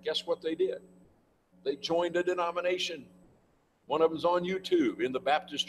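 mock-astonished reveal to the class; incredulous punchline. Real, not acted. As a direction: land the irony hard, voice rising. Punchline on defectors to denominations.

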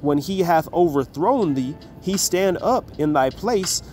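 slow, solemn reading of the verse; measured King James recitation; scripture reading. Acted. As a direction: read it out like holy writ, slowly. Reads scripture aloud.

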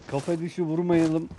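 announcing a new rule to players, slow; slow rule call. Real, not acted. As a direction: spell out kafa dışı vurmayalım slowly. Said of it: "Hemen kuralı değiştirelim".

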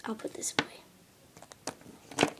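slow sulky whisper. Acted. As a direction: breathe it out slowly.

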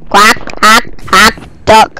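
short, low mock quacks; duck quacking. Gamer imitating the duck, duck quacking.

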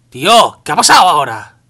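very loud, exasperated yell; grito de protesta. Real, not acted. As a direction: shout it out in disbelief at the game. Protesta ante un fallo del juego. (gritando indignado, muy fuerte)

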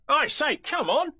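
slow, high, loud Tigger call. A narrator's reading. Tigger tired of calling his friends, high shout.

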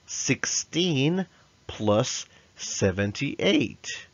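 drawn-out, deliberate count; slow restatement. Shown as a demonstration. Teacher slowing down for young learners. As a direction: say it slowly so kids follow.

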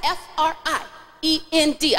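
"F R I E N D" in two groups, gap after I; spaced-out spelling. Shown as a demonstration. Host models the yell for kids, "F R I", gap, "E N D". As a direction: spell F R I, pause, then E N D. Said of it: "I left a little space in between there".

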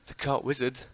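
a sharp gasp, then the name in disbelief; gasping surprise. Acted. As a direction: catch your breath at the court wizard. Narrator gasps at the name.

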